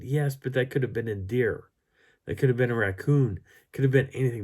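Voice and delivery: mildly worked-up protest; exasperated reasoning. Retold or imitated. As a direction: push back with emphatic examples. Retelling his exasperated argument.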